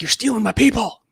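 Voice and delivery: mock boss complaining; imitating a coworker. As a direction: play a fake-offended boss. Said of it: "He's like".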